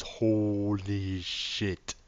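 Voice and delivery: a very slow, drawn-out "holy shit"; stunned. Real, not acted. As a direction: let the shock stretch every word. Shocked at the amount of wire.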